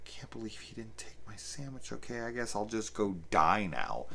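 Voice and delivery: breathy, hushed mopey mother; soft mock-sad whisper of a letdown mother; whispered mom voice. Voicing the mom's disappointment.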